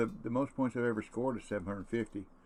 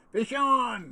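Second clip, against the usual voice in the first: laughing triumphant shout; holler; 14 semitones higher, 9 dB louder than usual. Real, not acted. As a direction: yell it out with a laugh. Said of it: "I wanna holler".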